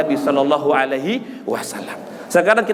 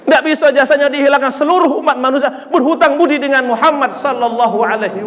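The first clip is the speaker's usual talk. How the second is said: raised, emphatic sermon delivery; impassioned preaching; 5 semitones higher than usual. Real, not acted. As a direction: proclaim it to the congregation. Preaches at full force. (berkhotbah dengan semangat)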